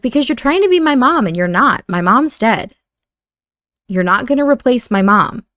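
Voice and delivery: lightly acted angry outburst; mild mock yell. Brother lashing out at his sister about his mom, mild mock yell. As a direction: push back with a touch of anger. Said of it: "he's gonna yell at her a little bit".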